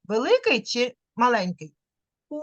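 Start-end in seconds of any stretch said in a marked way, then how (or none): 2.3-2.4 a held U with rounded lips; sustained U. Shown as a demonstration. Teacher prompts child to say U together. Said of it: "Який у нас ротик?".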